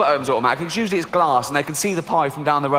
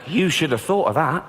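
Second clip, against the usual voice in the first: smug; slower than usual. Retold or imitated. Phone call, smug Britain.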